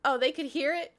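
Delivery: high, loud incredulous question; mortified surprise. Retold or imitated. Streamer reliving learning the neighbours heard it, shocked question. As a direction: jump up in pitch, taken aback.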